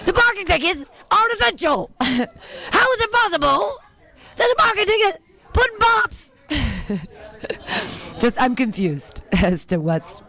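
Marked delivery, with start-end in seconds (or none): 0.0-6.3 mild Cosby voice tumbling into Puddin' Pops; a light Cosby riff, slightly higher; Cosby impression. Comic keeps the Cosby bit going for the crowd, lightly voiced. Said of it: "my Cosby impression".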